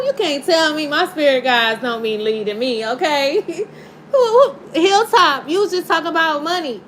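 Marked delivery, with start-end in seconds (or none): 4.1-6.8 high loud cry-laugh at the coincidence; laughing shout. Real, not acted. Tarot reader cracking up at the spirit's money message. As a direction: crack up calling out.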